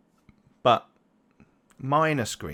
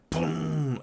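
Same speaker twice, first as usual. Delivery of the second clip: higher-pitched vocal "boom" of takeoff; imitated engine roar; 5 semitones higher than usual. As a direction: make the taxi's takeoff noise with the mouth. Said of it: "And he's like".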